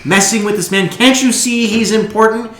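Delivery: put-on high, loud, slow sneering young noble; arrogant young noble. Young noble scolding the stallkeeper, high and sneering. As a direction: look down on the shopkeeper from a great height. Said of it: "a young man kind of comes up alongside you and he goes".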